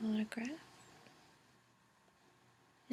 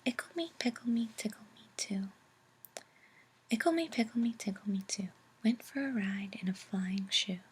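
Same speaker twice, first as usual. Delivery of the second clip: playful whispered rhyme, a little more projected; whispered nonsense verse; 4 dB louder, faster than usual. A narrator's reading. Reader sharing a fun children's poem, whispered playful recital. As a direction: lilt through the rhyme in a whisper.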